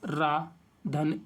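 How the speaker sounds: slow, careful "रा, धन"; धीरे-धीरे उच्चारण; ri sound demo. Shown as a demonstration. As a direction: sound out "रा, धन" one at a time, slowly. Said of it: "इस ध्वनि का उच्चारण".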